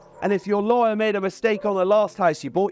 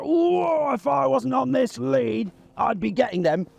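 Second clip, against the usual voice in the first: overexcited dog; 6 semitones higher, slower than usual. Retold or imitated. Trainer voicing a dog eyeing ducks on the pond, high excited shout. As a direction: voice a dog straining to chase ducks. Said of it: "he's like".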